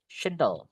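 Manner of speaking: "Tional" set apart, said as "shonal"; syllable demonstration. Shown as a demonstration. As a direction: sound out "Tional" alone as the word's ending. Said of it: "Bacanya gini, guys".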